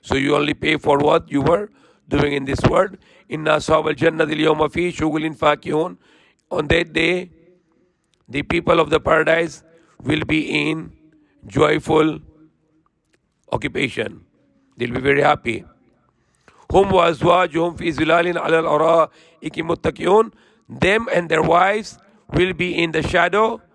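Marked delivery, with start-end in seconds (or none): 3.3-6.0 swift, even Quranic recitation. Acted. Preacher reciting the verse to listeners in quick chant. 16.7-20.3 swift, even Quranic recitation. Acted. Preacher reciting the verse to listeners in quick chant.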